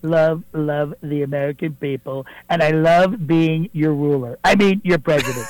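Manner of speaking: a fairly close Donald Trump impersonation, boastful. Acted. Impersonator calling the radio show as the president, Trump voice. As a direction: do Trump bragging to the host, leaning on believe me. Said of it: "not President Donald Trump".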